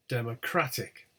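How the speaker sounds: DEMOCRATIC with lighter DEM, main CRAT; secondary stress. Shown as a demonstration. Teacher showing secondary stress at beginning, DEM then CRAT. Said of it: "secondary word stress at the beginning".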